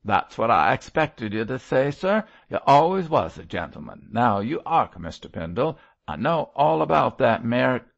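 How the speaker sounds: loud, eager rough voice; rough convict voice. A narrator's reading. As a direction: press on earnestly. Mosk earnest.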